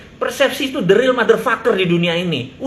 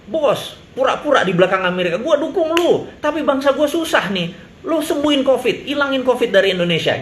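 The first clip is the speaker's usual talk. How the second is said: mock pleading; 6 semitones higher than usual. Mock pitch to US boss.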